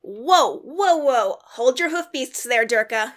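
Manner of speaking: admonishing. Acted. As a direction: rein him in with a scolding. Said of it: "Roxy admonishes him".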